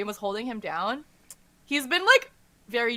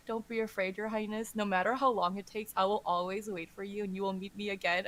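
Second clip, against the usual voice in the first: softer, lightly acted comforting; tender reassurance; 5 dB quieter than usual. Companion holds the prince and promises to wait, tender. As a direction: retell a gentle promise. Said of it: "holds him and says".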